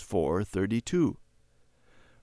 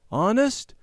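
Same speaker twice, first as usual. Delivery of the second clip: surprised; 13 semitones higher, 4 dB louder than usual. A narrator's reading. Harry's surprise at gift.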